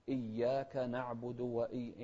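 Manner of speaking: إياك slow with an audible doubled y; clear shadda. Shown as a demonstration. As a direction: make the double y of إياك distinct. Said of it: "ونوضح التشديد أيضًا". (إياك بتشديد واضح)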